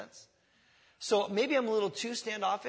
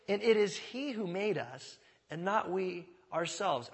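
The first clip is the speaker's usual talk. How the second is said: slow deliberate reading. Shown as a demonstration. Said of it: "Notice the emphasis here is on".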